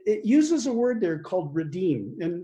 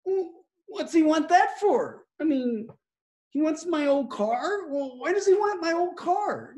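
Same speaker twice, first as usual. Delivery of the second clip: grumbling believer; 8 semitones higher than usual. Retold or imitated. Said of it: "you might think".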